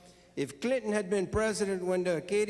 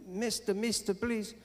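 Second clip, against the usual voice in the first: high, small pleading voice; higher-pitched begging frog; little frog voice; 5 semitones higher than usual. Acted. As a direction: plead as a tiny talking frog. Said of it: "frog repeats the same thing".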